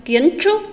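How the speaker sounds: emphatic teacher demo of "kiến trúc"; model pronunciation. Shown as a demonstration. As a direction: punch "kiến trúc" clearly for pupils to repeat. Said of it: "đọc lại một lần nữa theo cô".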